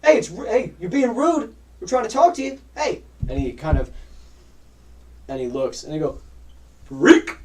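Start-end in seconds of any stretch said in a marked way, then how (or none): 0.0-3.0 put-on high, loud whiny teen voice; mocking, insistent kid; pestering teenagers. Teenagers pester a silent Gore. 6.8-7.4 put-on loud teen taunt; mocking catcall; jeering shout. Teenagers jeer at Gore.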